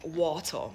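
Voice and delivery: "water" with no final r sound; Jamaican pronunciation. Shown as a demonstration. Recalling a word Americans stumbled on, Jamaican pronunciation. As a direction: Jamaican patois "water", ending in an open "ah". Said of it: "in Jamaica it's water".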